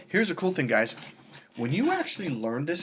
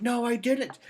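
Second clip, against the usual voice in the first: higher, insistent denial; mock girlfriend denial; 10 semitones higher, slower than usual. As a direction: deny it flatly in a higher voice. Retold couple quarrel.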